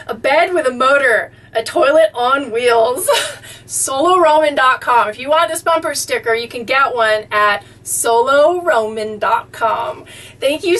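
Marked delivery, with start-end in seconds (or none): 1.5-5.1 chuckling toilet on wheels; laughing. Real, not acted. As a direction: laugh while reading it out. Laughing at bumper sticker.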